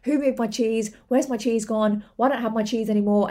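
mildly moaning string of questions; a touch of repetitive complaint; going on and on. Acted. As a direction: lightly act a mouse harping on its loss. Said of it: "Just keeps going on and on and on".

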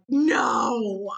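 mild mock cry of disbelief; drawn-out imitated "no"; audible protest. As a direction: re-enact an exasperated reaction to a bad movie. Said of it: "There was a lot of audible".

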